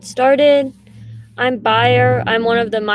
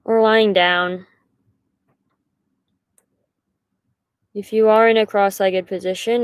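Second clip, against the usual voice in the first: unhurried guiding voice with long pauses; guided meditation. Acted. Meditation leader invites listeners to settle into position, unhurried guiding voice. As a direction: settle them in gently, pausing between instructions.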